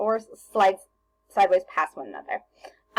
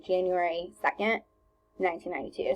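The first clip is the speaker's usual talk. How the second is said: January second, then a clear breath before nineteen ninety-two; pause at the comma; 3 dB quieter than usual. Shown as a demonstration. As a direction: stop after second, breathe, then say the year. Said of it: "we should take a breath in between".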